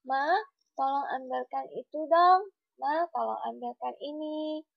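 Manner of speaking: unhurried, courteous asking without yelling; gentle, polite request. Shown as a demonstration. Child asking Mama to fetch something, gently and politely. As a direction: ask Mum nicely, lemah lembut. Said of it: "berbicara itu harus dengan lemah lembut".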